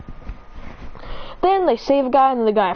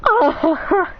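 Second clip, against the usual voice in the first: higher, open "ah-ha-ha" cackle; villainous laugh; 7 semitones higher than usual. Acted. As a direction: laugh as you attack, hammed-up. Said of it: "As he's laughing".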